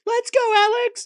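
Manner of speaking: high, stretched-out fan shout; mock heckler yell. Commentator replays the fan's shout at Parks, mock heckler yell. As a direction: imitate a fan calling out from the stands. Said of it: "somebody yells out".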